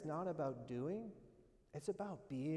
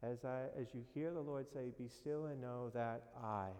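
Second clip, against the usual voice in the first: softer hushed voice, left hanging unfinished; 5 semitones lower, 5 dB quieter than usual. Pretend. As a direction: let it fade out and hang unfinished. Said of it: "I want you to listen quietly".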